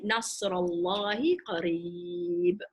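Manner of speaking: nasrallahi qareeb drawn out slowly; تلاوة بطيئة; slow Arabic recitation. Shown as a demonstration. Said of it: "this is the word, nasr".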